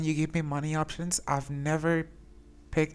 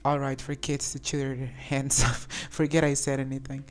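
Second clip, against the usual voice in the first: reading option, amused. Real, not acted. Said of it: "Or we can say".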